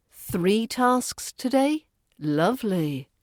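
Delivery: slow question, then a low, dry "Lovely"; drawn-out sarcastic British understatement; deep British sarcasm. Shown as a demonstration. Teacher giving learners an example sentence, deeply sarcastic. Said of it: "said with deep British sarcasm".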